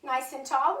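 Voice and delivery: slightly winded, breathing between phrases. Real, not acted. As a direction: talk while still catching your breath. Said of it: "Ooh, I'm out of breath".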